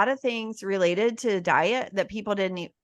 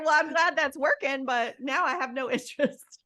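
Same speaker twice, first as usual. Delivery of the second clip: laughing; 6 semitones higher, 3 dB quieter than usual. Retold or imitated. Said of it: "I was like".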